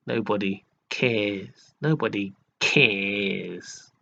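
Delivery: slow, drawn-out mocking "Nobody cares"; posh mock voice. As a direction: mimic his posh, lazy way of saying "Nobody cares". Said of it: "in that sort of, uh, posh voice".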